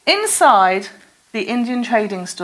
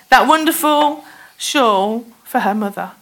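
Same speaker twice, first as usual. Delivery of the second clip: choked up; 4 dB louder than usual. Real, not acted. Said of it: "a bit emotional there".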